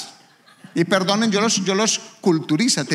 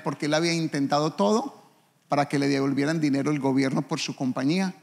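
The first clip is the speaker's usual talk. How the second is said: normal talking voice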